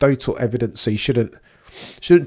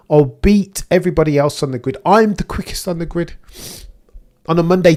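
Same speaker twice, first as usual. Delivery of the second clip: hyped-up boast; 3 semitones higher, 4 dB louder than usual. Retold or imitated. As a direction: pump yourself up, brash and loud. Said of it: "Rose Namajunas settings".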